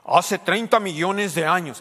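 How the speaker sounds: a light imitation of a solemn documentary narrator. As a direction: announce it like a nature film voice-over. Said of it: "pero a veces dicen".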